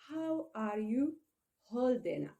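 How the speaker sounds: measured, slow model phrase with short pauses; slow demonstration. Shown as a demonstration. Teacher modelling an expression for learners, slowly. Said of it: "I'm saying these expressions slowly".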